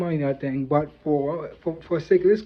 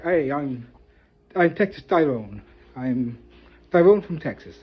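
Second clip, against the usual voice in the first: a weak put-on Texas accent introducing himself; terrible Texas accent. Shown as a demonstration. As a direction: try a Texas accent and miss it. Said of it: "that's a terrible accent".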